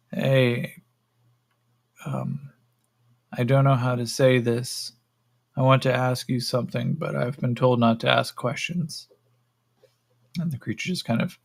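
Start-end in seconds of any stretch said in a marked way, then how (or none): 0.1-9.1 tentative, halting approach; lightly voiced captive, feeling his way to a question; hesitant captive. Yakim nervously approaches the creature, hesitant captive voice.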